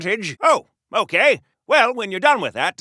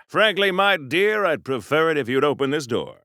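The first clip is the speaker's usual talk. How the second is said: a hint of an old Hollywood leading man, lower; Clark Gable impression; 4 semitones lower than usual. Superhero posing as Clark Gable to fool the guards, lightly voiced. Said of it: "they're probably not expecting Clark Gable".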